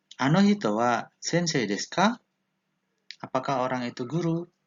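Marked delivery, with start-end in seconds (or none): 0.2-2.2 slight upward lilt rising on final ka. Japanese lesson, asking a question with a slight rise on final ka. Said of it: "intonasinya agak dinaikkan sedikit".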